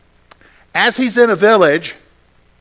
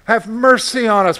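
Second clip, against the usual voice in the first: louder, pleading cry; crying out for mercy; 4 semitones higher, 3 dB louder than usual. Shown as a demonstration. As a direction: plead with them out loud. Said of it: "They cried out to Jesus for mercy".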